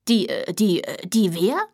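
halting, tripping over die; stuttering. Acted. Father confused at the door, stuttering. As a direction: stammer it out, lost. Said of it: "stotterte Julius Sommerfeld".

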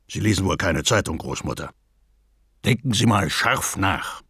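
fast, taunting robber voice; sly robber. A narrator's reading. Robber taunts grandmother about the newspaper, sly. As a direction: tease her like a swaggering robber.

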